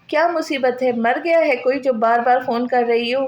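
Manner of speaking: fed up with the ringing phone; irritated. Acted.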